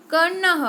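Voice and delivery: teacher models कर्णः for students with a clear final h; careful Sanskrit pronunciation. Shown as a demonstration. Teacher models a Sanskrit word for the class, carefully enunciated. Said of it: "मैं जैसे pronounce कर रही हूँ".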